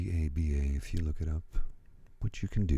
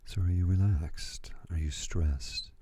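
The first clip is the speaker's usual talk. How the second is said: asmr whisper; 2 semitones higher than usual. Real, not acted.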